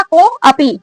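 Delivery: को अपि with a short break after को; word read by its parts. Shown as a demonstration. Teacher putting the whole word together for students, को अपि said part by part. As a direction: sound out को, then अपि, as separate pieces. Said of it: "ये पूरा शब्द क्या हो जाएगा?".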